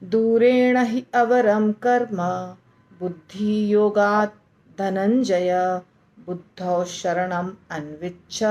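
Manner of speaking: slow, measured Sanskrit verse chant; slow devotional recitation; shloka recitation. Shown as a demonstration. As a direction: recite the verse slowly for students to repeat. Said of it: "एक बार पढ़ के सुनाती हूँ".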